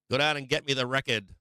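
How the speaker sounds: Boston accent. Shown as a demonstration. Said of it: "you gotta say it with the accent".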